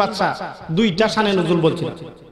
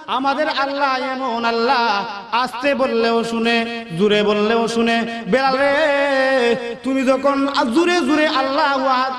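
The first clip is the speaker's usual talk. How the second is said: Abu Bakr calling Bilal; 4 semitones higher than usual. Acted. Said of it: "ডাক দিয়ে বলেন".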